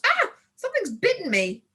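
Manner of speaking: high startled yelp of pain; sudden yelp. Acted. Girl yelping at the sudden bite in the dark. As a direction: cry out as if bitten. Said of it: "suddenly yelped".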